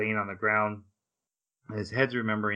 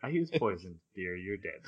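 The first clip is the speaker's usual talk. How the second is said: quoting Shinobu; 4 semitones lower, 7 dB quieter than usual. Retold or imitated. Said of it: "She's like".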